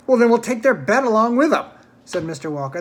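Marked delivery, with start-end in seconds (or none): 0.1-1.7 lightly voiced excitable showman; a hint of a grand, jolly host; eccentric host voice. A narrator's reading. Mr Walker voiced in story.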